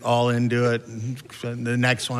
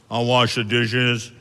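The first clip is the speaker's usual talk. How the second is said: reading coupon book. Retold or imitated. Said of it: "I wrote a coupon book".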